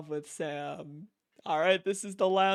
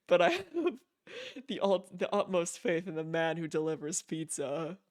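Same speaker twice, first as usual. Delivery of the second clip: lightly voiced, stately letter-writer; formal letter reading; 2 semitones lower than usual. Player reading Higgs's email aloud, mildly formal voice. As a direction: read it like a mildly pompous gentleman's letter.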